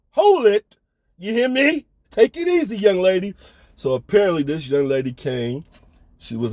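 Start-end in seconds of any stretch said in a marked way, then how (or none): 0.1-3.3 urgent calming. Retold or imitated. Calming the screaming woman.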